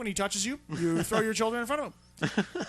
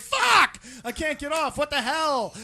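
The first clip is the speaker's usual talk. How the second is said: mock frustrated husband; 4 semitones higher, 3 dB louder, slower than usual. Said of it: "And he's like".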